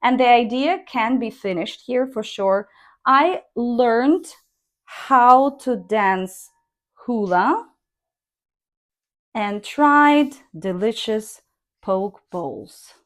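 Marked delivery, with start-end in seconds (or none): 3.0-12.9 how to dance said slowly, falling on poke bowls; slow through dance, drop at the end; model intonation. Shown as a demonstration. Teacher reading the final sentence, falling at the close. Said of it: "it should be a long pause here".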